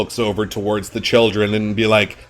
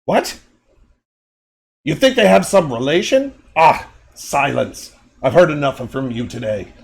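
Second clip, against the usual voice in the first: high, sly and mocking; owl creep voice; 4 semitones higher than usual. Owl creature mocks the doll, high and sly. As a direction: scoff with raised, silky pitch. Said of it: "and he goes".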